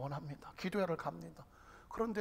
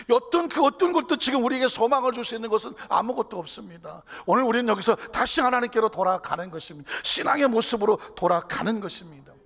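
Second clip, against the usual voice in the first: loud, raised-pitch proclamation; full-force preaching; 6 semitones higher, 14 dB louder than usual. Real, not acted. Preacher calling the congregation back to God, full-force preaching. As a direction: drive each statement home forcefully.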